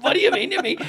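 high, loud, incredulous demand; acted indignant question. Challenged man answering the bluster, loud high indignation. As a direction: throw the question back loudly. Retold baffled reply in the row.

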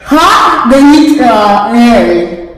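talking around a mouthpiece; wearing a mouthguard. Real, not acted. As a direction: read it with a mouthguard in. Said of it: "the person with the mouthpiece in reads a card".

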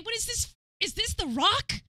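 high incredulous; can't believe it; disbelief. Real, not acted. Streamer seeing Banana on The Rock, disbelief.

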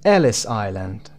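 slow "Ellis Island", strong first syllable on "Ellis"; stress on EL. Shown as a demonstration. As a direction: stretch "Ellis Island", leaning on "El". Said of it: "ا".

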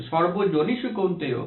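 slow, measured chant of a Sanskrit shloka; slow devotional Sanskrit recitation; Sanskrit verse recitation. Shown as a demonstration. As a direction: recite the verse slowly and reverently. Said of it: "ভগবান শ্রীকৃষ্ণ বলছেন".

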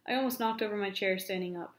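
lively read-aloud storytelling; story narration. Acted. Teacher reading a novel chapter aloud, animated narration.

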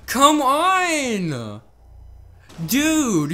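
loud, high outburst; frustrated yell. Real, not acted. Yelling at teammates trying to kick him, frustrated. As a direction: blurt it out in exasperation. Angry at getting vote-kicked.

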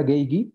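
"gay, gui" con g de gato; G dura, U muda. Shown as a demonstration. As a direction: pronunciar "gay, gui" sin sonido de u. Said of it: "se escriben sin U". ("gay, gui" como gue, gui)

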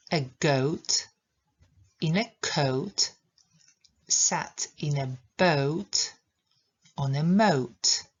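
slow "A goat in a coat", every "oat" gliding; slow tongue twister. Shown as a demonstration. Teacher reading her daughter's sentence slowly. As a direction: say each rhyme slowly, stretching "oat". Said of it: "bo brzmi ono tak".

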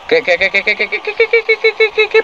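rising incredulous what's; disbelieving. Real, not acted. Disbelief at game event.

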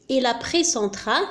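slow, deliberate dictation pace; slow example. Shown as a demonstration. Teacher rereads the second example to students, slowly. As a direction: spell the sentence out with your voice. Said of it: "المثال الثاني،".

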